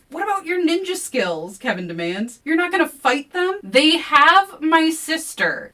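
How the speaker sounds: heated argument. A narrator's reading. Kevin and narrator arguing, high and loud. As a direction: fight it out.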